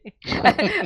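rising wicked cartoon laugh; evil villain cackle. Shown as a demonstration. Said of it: "à la méchante dans les Nick".

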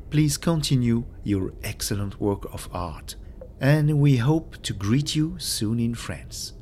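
careful, slowish English with a French accent. Real, not acted. Host reads his thank-you note to the Japanese author, in French-accented English. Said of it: "excusez mon accent".

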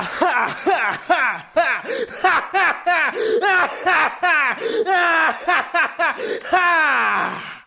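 long cackling villain laugh, rising and falling; evil laugh. Shown as a demonstration. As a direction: cackle like a heartless executioner. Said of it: "euh, un rire maléfique".

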